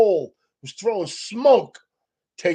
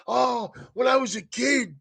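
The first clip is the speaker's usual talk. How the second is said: imitating Dodgers player; 6 semitones higher, 4 dB quieter than usual. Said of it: "the guy for the Dodgers said".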